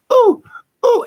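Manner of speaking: high mock yelp of pain; imitating aching mother. Imitating mother walking with her walker, high pained ooh. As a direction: hoot as mom inching along on her walker. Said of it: "she's walking with her walker".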